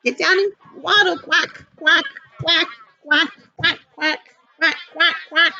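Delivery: lightly voiced quacking duck; reading to a toddler. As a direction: quack it playfully for little kids. Quacking along with kids.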